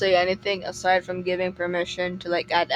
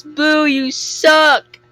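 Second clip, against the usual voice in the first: booing heckle; 7 semitones higher, 8 dB louder, much slower than usual. Acted. Heckling the game character.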